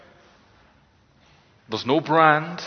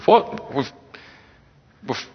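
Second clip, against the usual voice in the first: scoffing disbelief; 2 semitones higher than usual. Acted. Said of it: "You can't read it without laughing".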